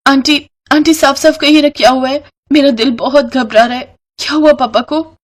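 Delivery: put-on high, pleading frightened girl; panicked young girl. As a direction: beg to know what happened.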